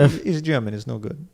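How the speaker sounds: mock Italian accent. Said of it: "That's a very German accent".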